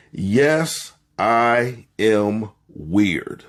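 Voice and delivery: drawn-out, slowly stretched confession; slow declaration. Shown as a demonstration. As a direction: stretch it out for them to repeat. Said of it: "I want you to repeat after me".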